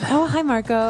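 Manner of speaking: two-faced cheery hello, put on; mock niceness. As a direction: switch to sugary hello, pretending to like him. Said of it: "I could be very nice to Marco".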